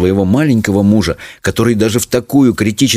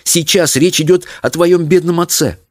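high, mildly cross mother; angry retort; 9 semitones higher than usual. A narrator's reading. Mother reminding daughter of poor father, cross. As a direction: press the point, a touch cross. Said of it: "сердито отрезала мать".

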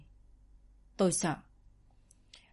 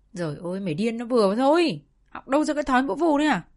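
furious scolding; 5 semitones higher, 5 dB louder than usual. A narrator's reading. Grandmother keeps scolding the father.

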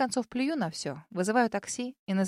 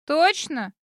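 put-on nervous girl voice; 6 semitones higher, 6 dB louder than usual. A narrator's reading.

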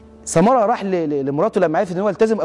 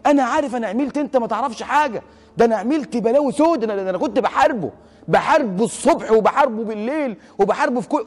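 high-pitched, mildly imitated weeping lament; retold tearful confession; 5 semitones higher than usual. Crying friend confesses his sins to the preacher, imitated tearful lament. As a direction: retell a penitent's distraught outpouring. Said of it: "فقعد يبكي، يبكي، يبكي، وقعد يقول له".

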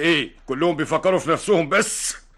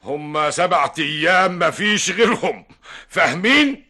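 stern ultimatum; 2 semitones higher, 3 dB louder, slower than usual. Acted.

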